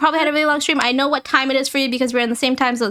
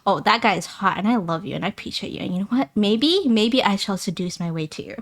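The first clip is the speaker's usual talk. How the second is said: seductive expression; 2 semitones lower than usual. Shown as a demonstration. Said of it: "we have, of course, the".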